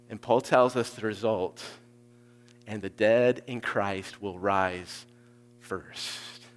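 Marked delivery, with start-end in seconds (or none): 2.7-6.5 slow reading. Shown as a demonstration. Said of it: "work through it really slowly".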